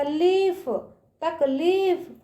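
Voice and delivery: लीफ and तकलीफ with a long ee in ली. Shown as a demonstration. Teacher pointing out the big matra, तकलीफ with long ee. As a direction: hold the vowel of ली in तकलीफ. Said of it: "ला पे बड़ी की मात्रा".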